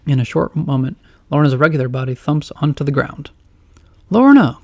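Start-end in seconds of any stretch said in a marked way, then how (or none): 4.1-4.6 high, loud urgent call. Acted. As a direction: call her name in alarm. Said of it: "calls out Wirt".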